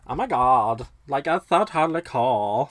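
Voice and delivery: put-on dumb-blonde Valley Girl accent; just about pull off a Valley Girl; Valley Girl movie parody. Shown as a demonstration. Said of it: "That kind of accent I can just about pull off".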